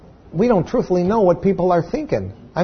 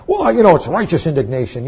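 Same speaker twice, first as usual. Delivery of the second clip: mock excuse; 2 semitones higher than usual. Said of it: "Yeah, sure it is".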